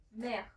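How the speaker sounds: "Mère" as one syllable with a French final R; French pronunciation. Shown as a demonstration. Teacher showing how mamá is pronounced, French pronunciation. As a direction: say "Mère" slowly enough to model the French R. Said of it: "te voy a poner su pronunciación".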